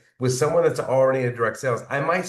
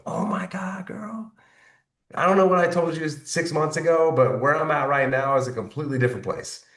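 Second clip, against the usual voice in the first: acted-out excited confiding; gushing excitement; 3 semitones higher than usual. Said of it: "That's when you get excited".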